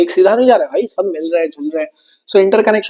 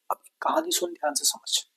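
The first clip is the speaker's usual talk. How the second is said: hushed storytelling; 9 semitones higher, 15 dB quieter than usual. Acted. Teacher starts the story, hushed.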